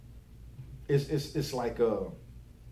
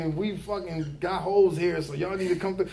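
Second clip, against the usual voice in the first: higher, hammed-up ad pitch; mock commercial pitchman; 4 semitones higher than usual. Barber mimicking the pitchman in a school commercial, hammed-up. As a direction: ham it up like a cheesy TV ad guy. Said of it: "he's promoting U T I".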